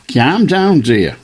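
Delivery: light mock regional accent on the catchphrase; Michael Winner in the wrong accent. Host echoing caller's accent, quoting Winner's ad. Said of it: "he didn't say it in that accent".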